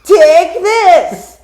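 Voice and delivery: high, very loud strained battle cry; hammed-up fighting shout; Silver. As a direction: yell it like a cartoon attack call. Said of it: "It's the one where he says".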